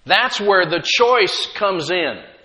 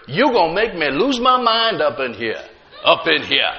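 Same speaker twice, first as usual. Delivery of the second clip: laughing mock quote; 3 semitones lower than usual. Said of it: "we start saying stuff that we've heard".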